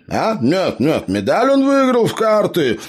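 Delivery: high, loud, flustered denial; flustered gnome. A narrator's reading. Gnome hastily explains the medal, high and flustered. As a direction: wave it away in a fluster. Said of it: "замахал руками гном".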